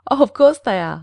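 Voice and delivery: loud, lifted, lightly merry reply; laughing. A narrator's reading. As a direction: toss it off brightly, as if amused. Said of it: "laughed Clorinda".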